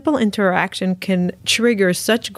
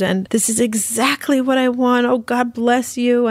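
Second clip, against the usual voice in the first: a hint of a grateful worker, a bit higher; 5 semitones higher than usual. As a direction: lightly voice his delight, slowing down at the end. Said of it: "And he's like".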